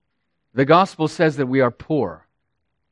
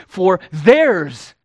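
raised voice; 2 semitones higher, 3 dB louder, slower than usual. Acted. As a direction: raise the voice a little on "theirs". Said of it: "Jesus raising his voice, as it were".

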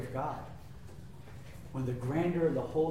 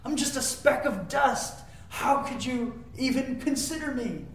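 higher, hushed voice of a humbled David; a hint of humble disbelief; 7 semitones higher than usual. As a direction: wonder aloud like a small man under the stars. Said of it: "He says".

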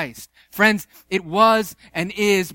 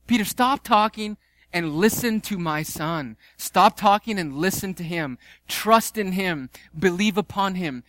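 God rebuking Peter; 2 semitones higher than usual. Retold or imitated. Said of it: "as if God is saying this".

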